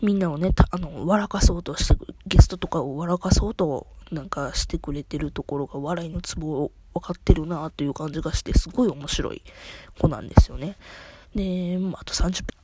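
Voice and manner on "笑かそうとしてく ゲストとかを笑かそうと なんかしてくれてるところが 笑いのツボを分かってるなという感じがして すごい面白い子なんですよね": all in one breath. Real, not acted. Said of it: "一息でし-、喋るからすっげえむせた".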